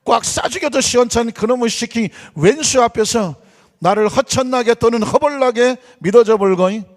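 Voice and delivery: hammed-up Jeolla dialect reading. Shown as a demonstration. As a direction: read scripture in a broad, folksy Jeolla accent. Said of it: "먼저 전라도 사투리로 시편 이십삼 편을".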